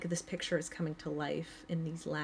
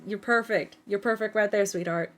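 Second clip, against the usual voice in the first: louder, reassuring grandfather; 3 semitones higher, 10 dB louder than usual. Acted. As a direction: tell the little one she's doing fine. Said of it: "And he goes".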